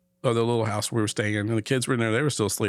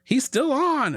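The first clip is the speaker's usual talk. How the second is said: high, slightly louder mock yell; retold scream, pitched way up; imitated screaming; 4 dB louder, slower than usual. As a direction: imitate someone yelling urgent news. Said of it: "she starts screaming, yelling".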